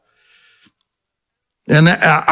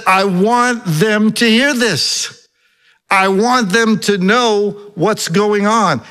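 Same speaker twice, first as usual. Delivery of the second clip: higher-pitched, retold prayer of Jesus; praying out loud; 6 semitones higher than usual. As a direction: voice Jesus praying so listeners hear. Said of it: "Jesus prays out loud to the Father".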